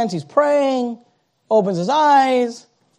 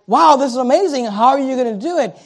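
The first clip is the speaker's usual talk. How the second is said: curious wonder; 3 semitones higher than usual. Shown as a demonstration. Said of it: "not speaking out of curiosity, like".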